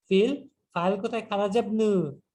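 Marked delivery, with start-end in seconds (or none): 1.2-2.2 খারাজা ইবনু run together as "kharajabnu"; linking hamza unpronounced. Shown as a demonstration. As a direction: drop the i of ইবনু after খারাজা. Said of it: "হামজাতুল ওয়াসল আমি উচ্চারণ করছি না".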